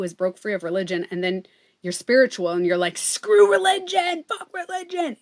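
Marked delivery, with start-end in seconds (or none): 3.0-5.2 mock angry rant. Ex-religious person mocks religion, in a high scornful voice. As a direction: sneer it out like a fed-up convert.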